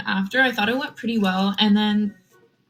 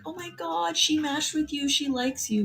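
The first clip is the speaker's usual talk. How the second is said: high, giddy teasing squeal; mock excited gossip; 6 semitones higher, 4 dB quieter than usual. Dorm guys teasing the match downstairs, high giddy mock squeal. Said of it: "these immature men run downstairs and go up to the guy and be like".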